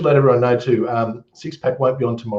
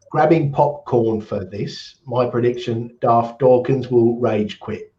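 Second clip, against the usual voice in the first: a slow, hammed-up bad English accent that slips into Australian; slower than usual. Host reads a viewer's comment aloud in a bad English accent. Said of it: "which is a terrible English accent".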